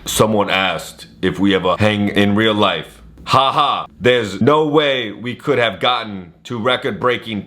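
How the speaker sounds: put-on slow, botched celebrity accent; Vin Diesel accent. Host reading out the star's post, slow botched accent. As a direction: read it slowly in a failed star-impersonation accent. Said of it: "I don't think that was a Vin Diesel accent".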